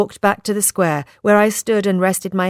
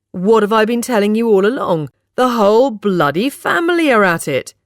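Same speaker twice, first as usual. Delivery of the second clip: higher, forceful I-told-you-so; loud, triumphant; 5 semitones higher, 4 dB louder than usual. A narrator's reading. Accusing her whole family, loudly triumphant. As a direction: crow it, pitched up and emphatic. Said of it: "he loudly and triumphantly announced".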